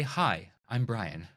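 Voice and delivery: slow, friendly self-introduction; friendly intro. Shown as a demonstration. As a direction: say your name simply and warmly. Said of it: "easiest way ... is to say".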